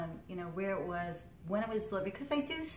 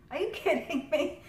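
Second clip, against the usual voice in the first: higher and louder stunned question; shocked disbelief; 8 semitones higher, 5 dB louder than usual. Retold or imitated. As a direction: gasp it out in shock. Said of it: "I'm like".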